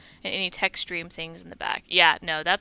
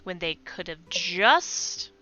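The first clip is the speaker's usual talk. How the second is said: put-on Valley Girl accent; 5 dB louder than usual. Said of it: "a Valley Girl accent for this character".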